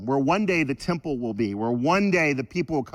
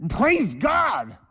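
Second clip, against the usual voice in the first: higher, excited church shout; praise shout; 9 semitones higher, 3 dB louder than usual. Shown as a demonstration. Preacher showing how Twenty-nine Palms shouts praise. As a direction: call out like a charismatic worshipper. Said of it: "we get excited about reign".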